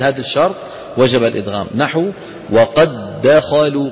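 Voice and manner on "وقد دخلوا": وقد دخلوا with doubled دّ, slow; slow idgham demo. Shown as a demonstration. Teacher modelling the merge for repetition. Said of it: "قولوا ورائي".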